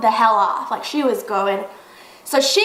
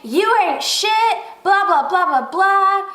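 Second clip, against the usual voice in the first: high-pitched mocking tirade; imitating name-calling; 6 semitones higher than usual. Angry woman insulting the storyteller, mockingly imitated. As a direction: mimic her rant, dismissively sing out the insults. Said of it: "she is calling me every single name".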